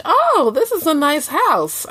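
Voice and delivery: high, drawn-out imagined "oh" of faint praise; passive-aggressive compliment. Pretend. Imagined guest remarks on the host's house, passive-aggressive. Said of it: "That's a passive aggression".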